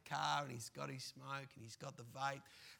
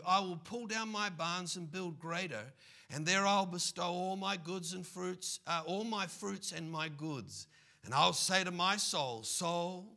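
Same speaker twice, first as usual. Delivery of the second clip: a hint of a smug rich man, louder; rich man musing; 4 dB louder than usual. Rich man planning bigger barns, lightly voiced and smug. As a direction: voice the rich farmer pleased with himself. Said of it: "And he thought within himself, saying".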